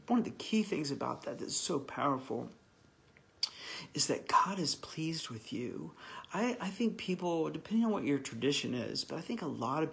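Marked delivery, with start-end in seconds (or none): 3.9-5.9 slow, tearful whisper; almost too moved to voice it; real tears, whispered; emotional whisper. Real, not acted. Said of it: "Sorry, I'm being emotional".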